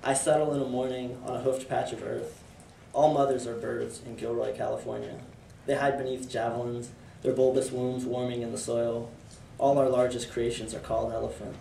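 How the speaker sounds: measured, even poem recitation; poetry reading. Acted. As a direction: read it as verse, pausing between phrases. Reads own poem aloud.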